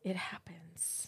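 soft voiceless whisper. Real, not acted. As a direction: breathe it out as a secret. Quiet aside about Legos.

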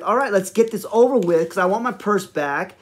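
impatient, quick-to-be-done attitude; retold fed-up teenage girl. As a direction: imitate her wanting it over with. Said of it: "getting this attitude".

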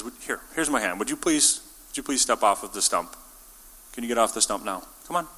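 gently voiced polite coaxing; polite request. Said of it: "God asks us politely".

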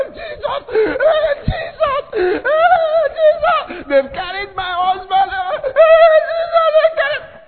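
hammed-up sobbing wail; mock wailing wife. Wife crying that robbers carried her husband: sung mock wail.

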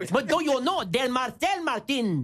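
drawn-out mock-Mexican accent; playful Mexican-accent English; joke Mexican accent. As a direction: ham up a slow Mexican accent. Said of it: "Au Mexique, on dit".

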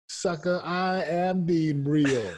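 high, drawn-out mock retort; playful comeback. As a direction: stretch out a playful comeback, ending in a laugh. Playful comeback to retold doubters.

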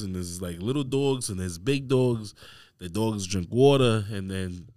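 put-on Staten Island guy accent; New York borough accent on dogs and water. Shown as a demonstration. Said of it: "Staten Island guy accent".

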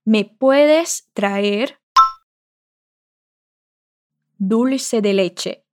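Me puedes traer stretched out very slowly; very slow request. Shown as a demonstration. Teacher repeats Pedro's request very slowly for learners. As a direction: ask it slowly, word by word. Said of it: "vamos repetir o seu pedido".

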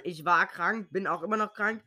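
sick, congested voice; talking with a blocked nose; stuffy nose. Real, not acted. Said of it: "Vielleicht hört man's".

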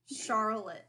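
imitating her way of sounding out Charlotte; "Charlotte" carefully sounded out, mimicking a friend; sounded-out name. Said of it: "That's how she sounds out my name".

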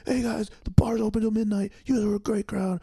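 high, loud, overly warm sign-off; cheesy closing host. Retold or imitated. Comic mocking his own gushy set closer, high and loud. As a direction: gush at the crowd like a cheesy host. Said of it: "I wanted to be".

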